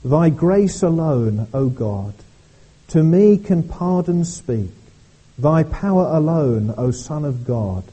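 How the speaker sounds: slow, solemn recital of verses; hymn reading. Acted. Pastor reading hymn verses to the congregation, slow and solemn. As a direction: read each line deliberately, like a hymn.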